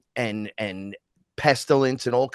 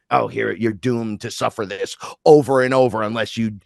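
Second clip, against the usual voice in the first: acted sentence of fate, growing louder; mock pronouncement of doom; 5 dB louder than usual. Fate telling a person they must suffer, mock ominous. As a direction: hand down a doom, then push harder.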